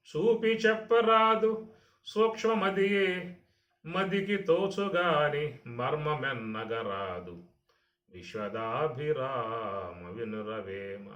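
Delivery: slow melodic verse chant; poem recitation. Shown as a demonstration. Teacher reciting Vemana's verse to listeners, in slow chant. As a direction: draw out each line like a Telugu padyam.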